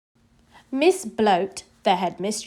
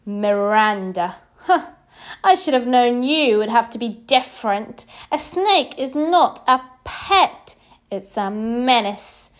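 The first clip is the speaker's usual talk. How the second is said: snapped; 4 dB louder than usual. Acted. Headmistress scolding Miranda, stern and snappish. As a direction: lay down the law, cold and cutting. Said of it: "snapped Missus Bloat".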